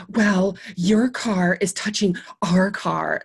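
slow, lightly mocking prim neighbor; a hint of a fussy neighbor; prim lady. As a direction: drag it out like a petty complaint. Mimicking the neighbor.

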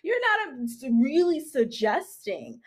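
high-pitched incredulous outrage; appalled. Retold or imitated. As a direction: re-enact disbelief, opening on a soaring "oh". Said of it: "and I was appalled".

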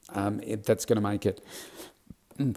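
talking through hiccups; words broken by real hiccups. Real, not acted. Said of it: "pardon me, I've got the hiccups".

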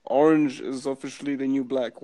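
a hint of Obama, mostly his own voice; lightly voiced Obama speech; understated Obama impersonation; Barack Obama impression. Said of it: "I can even try to do Barack".

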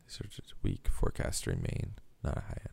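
quiet, voiceless mumble reading; mumbled under breath. Real, not acted. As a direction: mutter it to yourself. Mumbling while reading the article.

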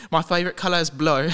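blue said as blow, laughing; my favourite colour is blue with blue said like blow; cockney accent. Pretend. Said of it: "is he saying blue?".

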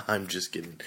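whispered through a laugh. Real, not acted. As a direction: breathe it out laughing. Teasing absent co-host.

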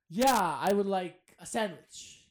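slow, carefully sounded out; slow careful English. Retold or imitated. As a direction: say it slowly like a learner. Slow rehearsed order in English.

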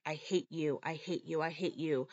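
low, soft repeated hate; quiet menace. Retold or imitated. Daughter with knife at passed-out mother, soft and low. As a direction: murmur it over and over.

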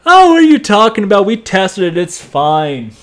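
quick high brush-off, "oh, what are you talking about"; dismissive parents. Retold or imitated. Parents brushing off their son's warning, dismissive. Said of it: "Something's not right here".

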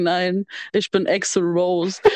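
dry and slow deadpan. Retold or imitated. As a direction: say it completely dry. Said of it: "er so ganz trocken".

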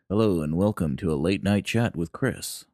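lightly voiced fifties radio host; a hint of an old-time announcer. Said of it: "like a radio host in the fifties".

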